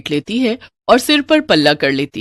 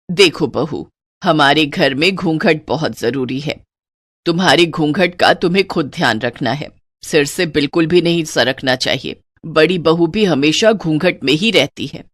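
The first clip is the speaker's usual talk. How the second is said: put-on lower, firm old-fashioned mother-in-law; stern mother-in-law; 4 semitones lower than usual. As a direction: lay down the house rules to the new bride. Strict mother-in-law lays down rules.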